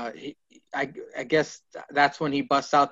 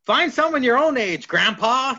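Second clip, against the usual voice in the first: retold scolding insult; 9 semitones higher, 4 dB louder than usual.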